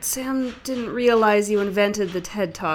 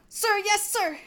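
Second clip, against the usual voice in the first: recruit shout; 8 semitones higher, 4 dB quieter than usual. Acted. Recruit answering sergeant.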